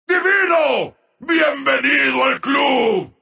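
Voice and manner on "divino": high, ringing exclamation; exultant announcer shout. Acted. Announcer declaring a player divine, exultantly. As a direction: cry it out high with excitement. Higher take of announcer call.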